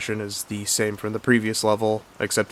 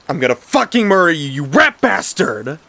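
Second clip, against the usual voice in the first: higher, louder and rushed, then dragged out; furious threat; 7 semitones higher, 7 dB louder than usual. Acted. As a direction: spit the threat at him. Grouper threatens brother before boss fight.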